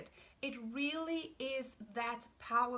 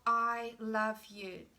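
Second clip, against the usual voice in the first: tender slow affirmation; 2 semitones lower, 4 dB louder, slower than usual. Shown as a demonstration. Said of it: "It is an unconditional gift of".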